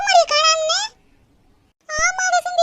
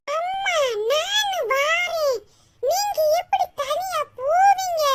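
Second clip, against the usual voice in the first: crying; 2 semitones higher, 4 dB quieter, much slower than usual. Acted. Child begging to go along.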